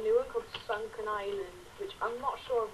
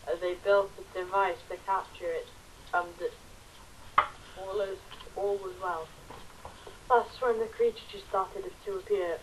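storyteller voice. Acted. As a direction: read it like a storyteller by the fire. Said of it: "Read it in, like, a storyteller voice".

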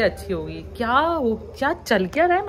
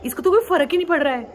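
mock commenter; 4 semitones higher than usual. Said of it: "कुछ लोग ये भी लिखते हैं".

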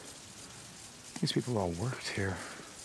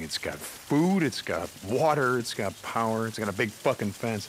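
impressed; 6 dB louder than usual. Acted. Listing the place's assets.

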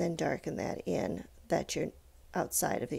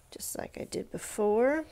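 whisper; 3 semitones higher than usual. Real, not acted. Unvoiced whispered aside.

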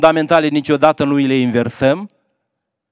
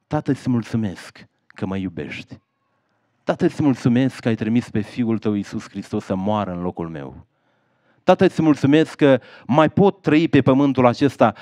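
tender prayer; 2 semitones lower than usual. Acted. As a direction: pray it gently, from the heart. Model prayer offered to listeners.

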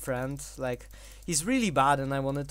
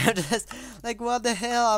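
exasperated disbelief; 9 semitones higher, 4 dB louder than usual. Real, not acted. Baffled at own bad play.

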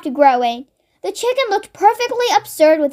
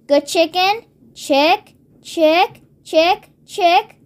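evenly spaced calls, each rising at the end; coaxing chicken call; much slower than usual. Acted. George holding out a spoonful, coaxing chicken call. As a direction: coax a chicken closer, gently repetitive.

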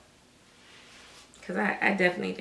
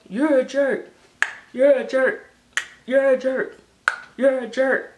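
repeated mock insult, louder and higher; playful teasing, louder and higher; 6 semitones higher, 5 dB louder than usual. Real, not acted. Vlogger trading mock insults, louder and higher. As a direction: tease them right back, raising the voice.

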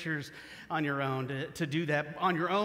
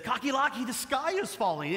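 lightly voiced hen, higher and urgent; panicked hen; 6 semitones higher than usual. Hen warns Cocky Locky the sky falls, mock-panicked. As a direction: cry out the alarm to a friend. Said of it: "and says".

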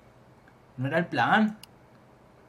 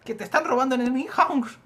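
high, loud call across a distance; insistent warning shout; 10 semitones higher, 7 dB louder than usual. Acted. Telling him he is being robbed, insistent shout. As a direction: yell it to make him listen.

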